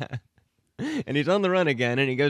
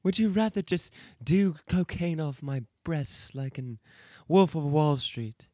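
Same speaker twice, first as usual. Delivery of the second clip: Jessica Rabbit voice. Retold or imitated. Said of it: "pretty good Jessica Rabbit".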